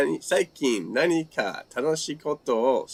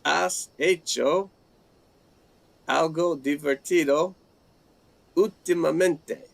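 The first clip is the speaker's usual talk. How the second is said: slow careful Spanish; 3 semitones higher than usual. Shown as a demonstration. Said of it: "I would say".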